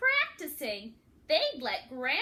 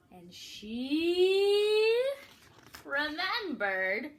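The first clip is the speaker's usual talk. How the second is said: suspense; 2 semitones higher, 5 dB louder, much slower than usual. A narrator's reading. Suspense before the hit.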